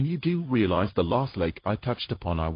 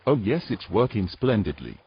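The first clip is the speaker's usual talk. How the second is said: sarcastic. Acted. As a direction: pretend it's all fine while sinking. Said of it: "the subtle nuances of sarcasm".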